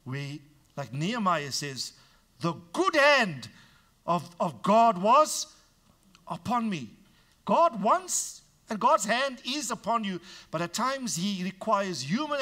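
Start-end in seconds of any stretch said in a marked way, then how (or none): 2.4-10.2 high, loud, slow proclamation; preacher lifting the congregation; preaching at full force. Acted. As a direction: build and declare it. Preaching building to climax.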